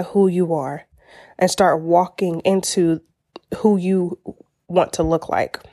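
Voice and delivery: halting delivery with pauses; halting stumble. Real, not acted. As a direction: trip over the words haltingly. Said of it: "I don't know why I was stuttering with that".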